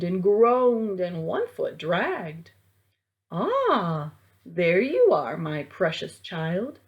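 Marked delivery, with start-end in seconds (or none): 3.3-6.8 lightly eerie mummy, drawn out; a hint of a creepy undead mother; mummy mother greeting her child, eerie; strange mummy voice. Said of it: "Her voice was strange".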